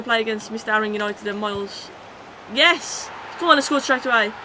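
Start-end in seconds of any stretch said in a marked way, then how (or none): 2.5-4.3 excited cheer. Real, not acted. Goal scored while playing fifa.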